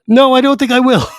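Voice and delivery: high, laughing, smug refusal; a high giggly no, enjoying the refusal; laughing mock refusal. Draconian laughing off Tanis's plea, high smug refusal.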